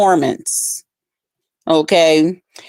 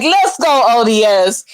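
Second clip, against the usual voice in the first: hype cheer. Retold or imitated. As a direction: cheer him on. Cheering the performer.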